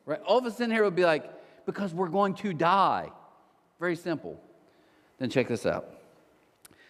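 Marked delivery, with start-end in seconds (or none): 1.7-3.1 slow, stretched-out retort; exasperated obviousness. Acted. Passengers answering a foolish question, exasperated obviousness. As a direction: spell it out slowly as if obvious.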